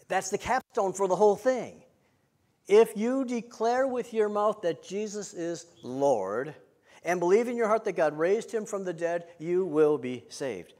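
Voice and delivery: slow, weighty proclamation, words set apart; emphatic preaching. Real, not acted. Preacher declaring the key verse to the congregation, emphatic.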